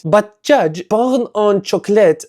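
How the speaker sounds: put-on protesting to the judge in a light French accent; mock French accent. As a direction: object with a hint of a French accent. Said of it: "snap out of the French accent".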